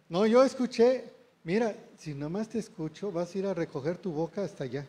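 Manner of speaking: regaño de padre que arranca alto y fuerte y baja; padre amenazante. Acted. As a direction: amenazar al hijo, acelerando al final. Parent threatening a child who talked back. (regaño amenazante)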